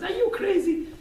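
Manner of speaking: very high and loud outraged cry; indignant shout. Retold or imitated. Ruler tripping over someone shouts an angry demand. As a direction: snap the question out in outrage.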